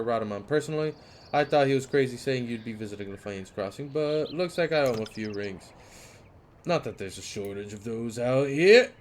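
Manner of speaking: fast, loud guard refusing; guard turning the Fatebinder away; firm guard. Acted. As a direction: rattle off the refusal.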